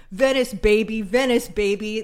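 loud hyping shout; hype man shout. Retold or imitated. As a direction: pump up the room. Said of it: "He was just like".

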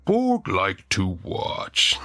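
slow, broken-speech orc. Acted. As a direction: talk like a slow, simple orc. Orc character speaking.

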